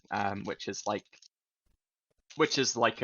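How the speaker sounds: talking with a mouthful of food; mouth full. Real, not acted. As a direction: chew while you talk. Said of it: "You having a snack?".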